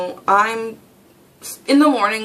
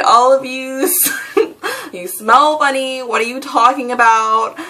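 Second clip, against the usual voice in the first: laughing mock insult; 4 semitones higher, 3 dB louder than usual.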